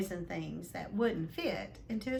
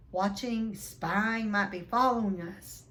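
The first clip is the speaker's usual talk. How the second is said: wild muttering; 5 dB louder than usual. Acted. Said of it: "muttered Uncle Vernon wildly".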